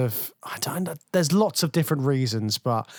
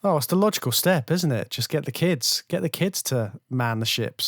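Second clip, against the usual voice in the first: sarcastic; 2 semitones higher than usual. Real, not acted. Co-host mocking the film's recruiting of children, sarcastic. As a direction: feign agreement with a note of sarcasm. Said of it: "I'm detecting a note of sarcasm in your voice".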